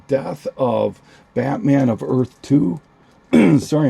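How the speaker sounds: hoarse, strained voice; losing voice. Real, not acted. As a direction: voice going hoarse and raspy. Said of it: "I'm losing my voice here".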